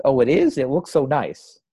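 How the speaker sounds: Mitzi's ditzy voice. Retold or imitated. Host quoting Mitzi's funny line, a mock ditzy gush. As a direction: play it dim and delighted. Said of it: "Mitzi says".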